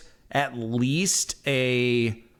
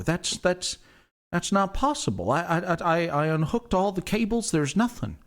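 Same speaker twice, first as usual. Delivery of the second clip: flustered stammering man, a bit higher; nervous stammering Tim; 5 semitones higher than usual. Acted. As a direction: stammer it out in disbelief, rattled. GM voices NPC Tim.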